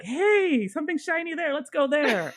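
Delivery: mocking her tipsy date who chases every shiny thing, high and giddy; distracted excitement. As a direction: play a scatterbrained kid spotting something shiny. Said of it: "every time he sees something shiny".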